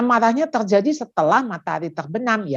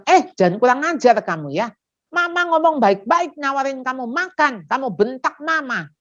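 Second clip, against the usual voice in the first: scolding mother; 4 semitones higher than usual. Acted. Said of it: "Jangan dimarahin dong".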